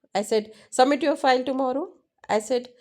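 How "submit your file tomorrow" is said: fast, brisk order; a fast, curt instruction; quick command. Shown as a demonstration. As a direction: rattle it off as a command. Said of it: "All are different".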